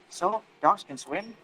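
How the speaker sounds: surprised. Shown as a demonstration. Answerer surprised by what the questioner said, surprised. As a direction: draw it out in surprise, rising. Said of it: "one who answered is surprised".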